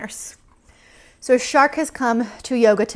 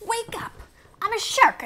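playful wake-up call; sing-song wake-up; 11 semitones higher than usual. Pretend. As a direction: gently rouse the sleepers. Waking the napping sharks.

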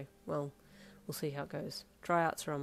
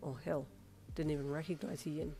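hushed awe; 2 semitones lower, 7 dB quieter than usual. Acted. Darby seeing the disguise, softly awed. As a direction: take in the disguise in quiet wonder. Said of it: "Darby said in awe".

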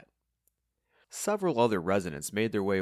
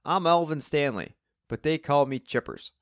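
loud, higher-pitched Cockney greeting; chirpy Cockney; 6 semitones higher, 5 dB louder than usual. A narrator's reading. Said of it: "with a chirpy Cockney accent".

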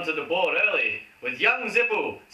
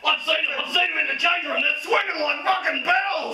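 much higher, laughing gossip; excited squeal; 10 semitones higher than usual. Acted. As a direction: squeal it with delight.

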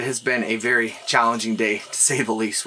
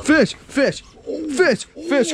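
excited shouting; 13 semitones higher, much slower than usual. Real, not acted. Hookup, calling out fish excitedly.

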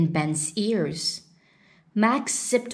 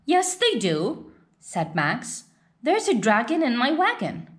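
put-on child's voice pitched up, eager and insistent; a little boy sure he's right, raised up high; 5 semitones higher than usual. Max insisting to his brothers, eager and higher.

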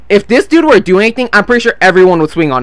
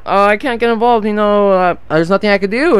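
mocking useless guard; 3 dB quieter than usual. Security guard refusing to get involved, mock helpless. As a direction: imitate a feeble excuse-maker, mockingly.

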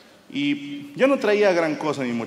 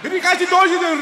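mock German gibberish, shouted much higher and louder; mock German shouting; 13 semitones higher, 6 dB louder than usual. Comic imitating the German policeman, mock German shouting. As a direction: bark fake German at him like an angry cop.

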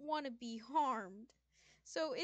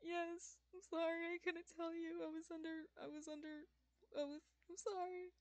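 shy. Acted. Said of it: "He looks down very shyly".

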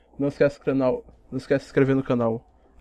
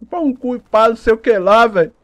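excited; 6 semitones higher, 8 dB louder than usual. Real, not acted. Talking right after laughing.

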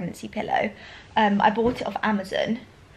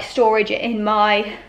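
out of breath; 4 dB louder, slower than usual. Real, not acted. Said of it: "sorry, I'm so out of breath".

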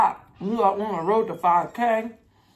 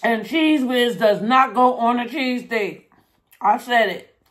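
emphatic; 4 semitones higher, 5 dB louder than usual. Real, not acted. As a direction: lay down the law, no debate. Firm stand against Cheez Whiz.

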